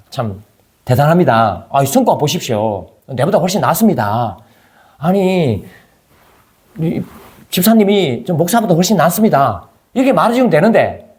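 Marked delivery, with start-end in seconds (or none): 0.1-9.7 sincere praise. Shown as a demonstration. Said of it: "비꼬지 말고".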